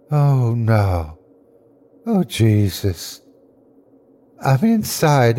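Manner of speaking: weakly gasped horror, in halting phrases; faint gasping dread. Acted. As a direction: gasp it out as if fading. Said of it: "He gasped again, fainter than ever".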